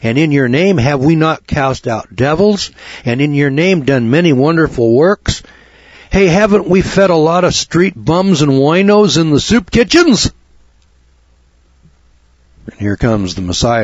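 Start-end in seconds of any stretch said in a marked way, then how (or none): 0.0-10.3 mock pleading. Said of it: "And he says".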